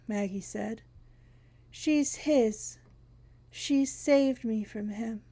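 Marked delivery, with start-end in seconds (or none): 1.7-5.2 lightly voiced thin, dry woman; dry papery voice. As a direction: rasp it dry like old paper. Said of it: "the dry and papery voice".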